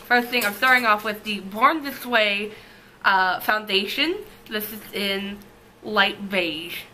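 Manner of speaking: numb mouth, slightly slurred; numb from the dentist. Real, not acted. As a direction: talk through a numb mouth. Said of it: "while my mouth is still numb".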